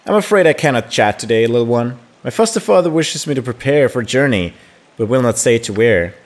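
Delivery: lightly acted, courteous refusal; polite game hero. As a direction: read it as a formal hero gently turning a friend down. Reads hero's formal reply aloud.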